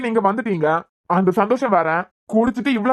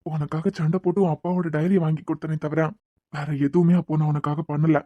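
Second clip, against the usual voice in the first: tender confession; 4 semitones lower than usual. Acted. Tender confession to her lover.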